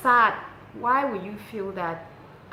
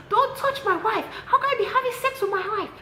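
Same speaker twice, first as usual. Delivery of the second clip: laughing while shouting; 6 dB louder than usual. Retold or imitated. Angry caller, teller laughing through.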